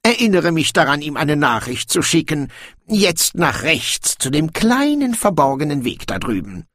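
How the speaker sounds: high, theatrical mock dismay of a dwarf king; feigned astonishment. A narrator's reading. Dwarf king excuses a secret entrance, feigning astonishment. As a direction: play innocently amazed, pitched high. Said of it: "Brokando gab sich erstaunt".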